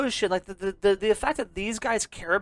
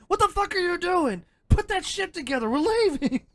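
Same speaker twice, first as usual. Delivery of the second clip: imitating Han; 9 semitones higher than usual. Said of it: "Han rushes out".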